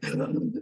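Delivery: sharp gasp, acted out; retold shocked gasp; breath-catching gasp. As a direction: act out losing your breath for a second. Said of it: "lost my breath for a second".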